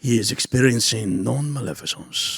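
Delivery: measured pronunciation-video narrator; imitating narrator. Podcaster imagines the video guy narrating life, mock instructional narrator. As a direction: mimic an over-careful instructional voice. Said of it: "I want this guy to narrate my life".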